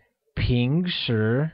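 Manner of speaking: "平时" slowly, both syllables in a mid-rising tone. Shown as a demonstration. Teacher modelling a Mandarin word for learners, "平时" with mid-rising tones. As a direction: draw out "平时", lifting each syllable from the middle. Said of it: "carries a mid-rising tone".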